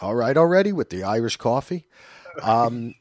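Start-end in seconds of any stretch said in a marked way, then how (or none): 0.0-1.9 lightly imitated exasperated complaint; louder, questioning mock grumble; a hint of fed-up sitcom griping; Larry. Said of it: "I would be like Larry sitting there like".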